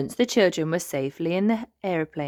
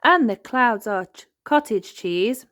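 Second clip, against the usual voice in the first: mild gasp; 6 semitones higher, 5 dB louder than usual. Acted. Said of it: "gasped Susie Sheep".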